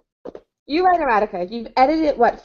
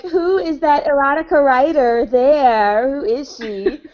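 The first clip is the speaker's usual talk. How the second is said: imagined onlooker; 3 semitones higher, slower than usual. Pretend. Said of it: "It'll be like".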